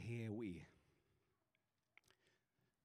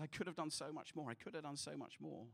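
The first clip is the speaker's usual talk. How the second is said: mild sob; 6 dB quieter than usual. Retold or imitated. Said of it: "he sobs and says".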